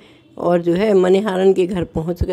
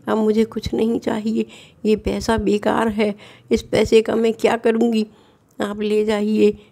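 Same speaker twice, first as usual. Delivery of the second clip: tearful refusal; 4 semitones higher than usual. Acted. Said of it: "रोने लगी और कहने लगी".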